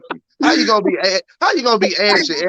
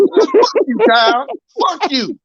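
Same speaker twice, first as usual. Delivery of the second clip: yelled curse; 9 semitones higher than usual. Acted. Escalating roast of Kyle.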